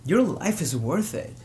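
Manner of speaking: urgent, rising plea to stay alive; earnest plea. Retold or imitated. Hotline worker pleading with a desperate caller, urgent. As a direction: press the caller hard that life matters. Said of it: "one worker tells a, a caller".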